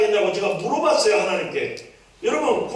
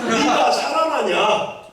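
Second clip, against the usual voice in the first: put-on drawn-out Jeolla-accented rhetorical question; chiding question in Jeolla satoori; Jeolla dialect; 2 semitones higher, slower than usual. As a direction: answer back in a Jeolla dialect. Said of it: "전라도 사투리로 응답하신 거예요".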